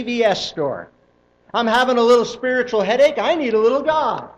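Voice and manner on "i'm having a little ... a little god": a lightly voiced whiny churchgoer, a bit quick; hammed-up pleading for a little help; mock complaining consumer. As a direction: play the shopper for a quick fix. Voicing a spiritual consumer.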